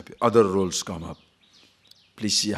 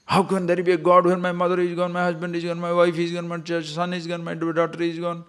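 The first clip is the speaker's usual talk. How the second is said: angry grieving outcry; 8 semitones higher than usual. Retold or imitated. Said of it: "People are so angry".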